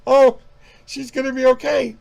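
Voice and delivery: high, loud mock-movie wail; melodramatic mimicry. Film character in denial over the dead girl, melodramatic.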